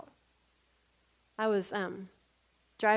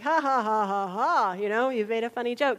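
mock laugh; 7 dB louder than usual. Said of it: "so I was like".

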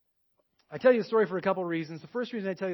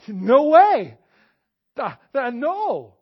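higher, louder flat refusal; a stubborn no way, stuttered; mock refusal; 6 semitones higher, 12 dB louder, much slower than usual. Refusing the Spirit's urging.

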